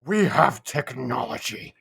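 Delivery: slow, low deadpan announcement; mock meme voice. Friend echoes the tech meme, deadpan low. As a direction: drone it like a proud machine.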